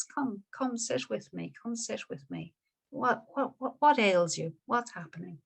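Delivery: softly voiced kind monk; gentle invitation. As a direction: soothe a frightened young man. Buddha gently invites troubled Yasa.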